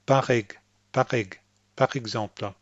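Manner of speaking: PAR EG in short bursts, then PAR EXEMPLE, with a popped R; French PAR EXEMPLE, pop not scratch. Shown as a demonstration. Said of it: "a little bit of a pop".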